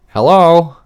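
loud, high call of hello. Retold or imitated. Calling into her room about the beeping stove, loud call. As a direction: call out to get her attention.

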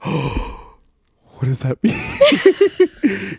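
very slow, high, wide-eyed wonder; innocent child. Retold or imitated. First-grader reacting to learning it's a bad word, innocently awed. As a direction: imitate a naive kid, stretching the question out.

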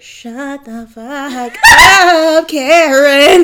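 mock angry snap. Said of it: "And Jen's like".

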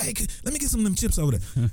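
high, wheedling ask; hobo asking. Retold or imitated. Hobo asking the white dude for a sandwich, high wheedle.

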